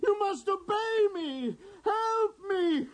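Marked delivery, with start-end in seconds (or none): 1.8-2.9 begging through tears; a broken king crying for help; crying plea. Acted. King pleading, deranged.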